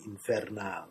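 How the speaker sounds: Infernal with the stress falling on "-NAL"; stress on final syllable. A narrator's reading. Narrator as Tom reaches for the pepper, Infernal stressed on the final syllable. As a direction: put the weight on the last syllable of Infernal. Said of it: "Chili mavens stress the final syllable".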